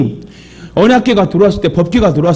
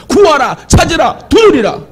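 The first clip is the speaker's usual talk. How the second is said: high, punched preacher's commands; proclaimed commands; 7 semitones higher than usual. Acted. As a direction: call out each command as a separate high burst. Preacher proclaims three scriptural commands. (높고 힘차게 한 마디씩 선포하듯)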